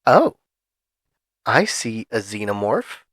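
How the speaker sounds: a hint of a slow, eerie drive-thru cashier; creepy cashier tone. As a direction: lightly voice the strange cashier. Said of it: "in this exact tone".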